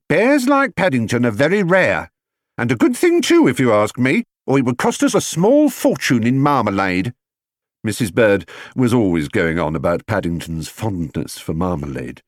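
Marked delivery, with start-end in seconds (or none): 0.1-7.1 higher, emphatic housekeeper with a lilt; a fussy housekeeper grumbling over the tea things; housekeeper voiced. A narrator's reading. Housekeeper to Mr Brown, higher and emphatic. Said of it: "exclaimed Missus Bird".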